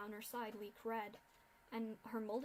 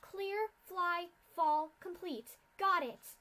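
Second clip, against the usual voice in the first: urgent whisper-shout plan; 7 semitones higher, 8 dB louder, slower than usual. Acted. Scootaloo briefs the fillies' escape.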